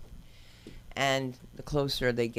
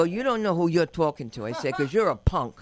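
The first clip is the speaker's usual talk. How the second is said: confrontational retort; 2 semitones higher, 6 dB louder than usual. Retold or imitated. Acting out her confrontation.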